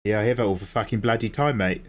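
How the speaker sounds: lightly put-on Australian accent. Shown as a demonstration. Streamer showing off their Australian accent to chat, light Aussie twang. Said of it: "That's my Australian accent".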